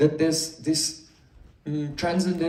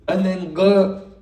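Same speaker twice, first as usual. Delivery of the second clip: a slow, louder go, left hanging; drawn-out syllable; 5 dB louder, slower than usual. Shown as a demonstration. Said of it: "that disappears".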